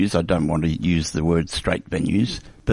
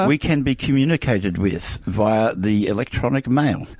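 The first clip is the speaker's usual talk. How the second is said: soothing radio voice; 3 semitones higher than usual. Acted. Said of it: "soothing radio voice".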